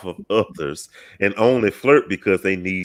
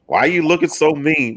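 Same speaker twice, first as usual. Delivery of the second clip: imitating a guy calling out, pitched up; a teasing, pitched-up question from a man on the street; mild mock catcall, higher voice; high mock catcaller; 6 semitones higher than usual. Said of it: "You know".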